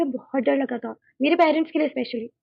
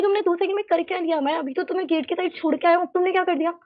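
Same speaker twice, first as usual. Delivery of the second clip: shocked dad; 4 semitones higher than usual. Retold or imitated. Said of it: "पापा तो इतने shocked थे".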